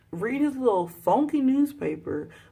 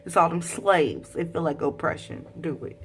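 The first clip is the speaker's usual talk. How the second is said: louder, egging her on; hyped encouragement; 4 dB louder than usual. Real, not acted. Hyping Elizabeth against the wife, loud encouragement. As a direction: cheer her like a friend. Cheering a character on.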